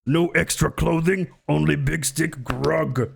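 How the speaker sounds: lightly voiced caveman grunting out words; hammed-up broken-English caveman; mock caveman. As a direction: play a simple caveman, word by word. Playing caveman Grug in broken English.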